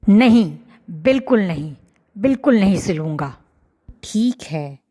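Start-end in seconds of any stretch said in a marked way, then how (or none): 0.0-3.3 loud no, then rapid refusal; angry refusal. Acted. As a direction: bite off the words. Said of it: "दर्जी ने भी गुस्से में बोला".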